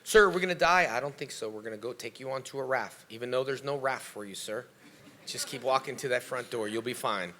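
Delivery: calm. Acted. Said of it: "calmly walk you to the exit".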